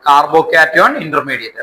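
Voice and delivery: slow, drawn out, rising at end; slow dictation. Shown as a demonstration. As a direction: dictate slowly, checking they follow. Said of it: "എഴുതാം".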